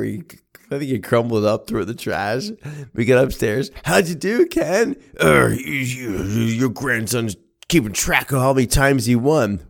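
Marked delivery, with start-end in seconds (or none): 3.8-5.0 high-pitched grandmother voice. Retold or imitated. Grandmother asking grandson upstairs, high-pitched eager question. 5.2-9.6 higher, stammering mock fury; sputtering anger. Grandfather complaining to grandmother about grandson, sputtering anger.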